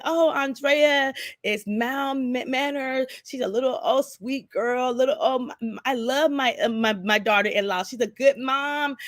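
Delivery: a hint of a proud mother-in-law. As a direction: gush sweetly about your daughter-in-law. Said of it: "His mom was like".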